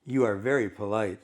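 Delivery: understated mock politeness; lightly acted dry sarcasm; sarcastically. Woman to the rude man on her bench, mildly sarcastic.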